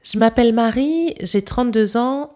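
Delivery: Parisian French with silent E's dropped; Parisian accent. Shown as a demonstration. Host compares her accent with the guest's, Parisian accent. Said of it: "And now my accent".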